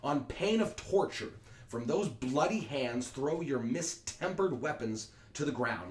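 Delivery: stern threat. Acted. Prince's threat.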